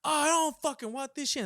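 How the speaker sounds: high, loud mock outrage; retold angry refusal. Homeless man throwing food back at him, mock angry.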